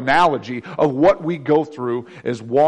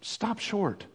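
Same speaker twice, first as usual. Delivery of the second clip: soft tempting voice; 9 dB quieter, slower than usual. Acted. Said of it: "world call you to say".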